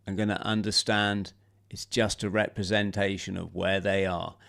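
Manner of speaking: lightly voiced affirmation guide, measured pauses. Showing Johnny how to lead affirmations, lightly voiced guide. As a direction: guide listeners softly, leaving space between phrases. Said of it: "then you come in".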